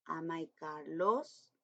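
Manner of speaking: very slow, deliberate question; slow dictation. Shown as a demonstration. Teacher modelling the question slowly for primary pupils. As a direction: lay out each word for the class. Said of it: "teacher reads model question".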